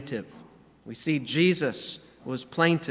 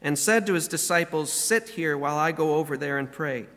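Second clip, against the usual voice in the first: scripture reading. Acted. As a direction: read the passage with reverent weight. Reads Gethsemane scripture aloud.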